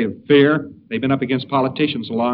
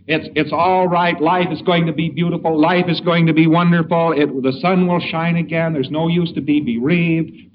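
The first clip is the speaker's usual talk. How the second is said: cheery reassurance; 2 semitones higher than usual. Retold or imitated. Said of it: "It's senseless when a person breaks down".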